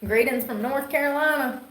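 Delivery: put-on thick North Carolina accent. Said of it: "thinks we all talk like that anyways".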